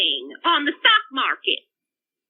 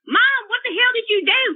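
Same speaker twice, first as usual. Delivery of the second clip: higher mock-angry protest to mom; retold raging; 5 semitones higher than usual. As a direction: imitate an outraged son, pitched up. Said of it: "as he's screaming, he starts raging".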